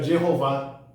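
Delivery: Jeová with an English J and sounded H; English-style pronunciation. Shown as a demonstration. Teacher giving the English form, Jeová with hard J and H. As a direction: say Jeová as "djeh-ho-VÁ". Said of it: "Tanto que em inglês".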